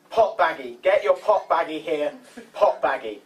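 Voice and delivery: lightly hammed-up hawker's call; street seller's cry. Witness quoting his phone call, mock hawker's cry.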